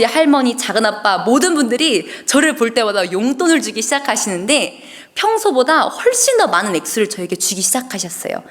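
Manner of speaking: ordinary delivery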